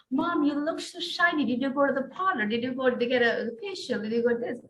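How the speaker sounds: put-on a child bubbling over with questions; excited daughter.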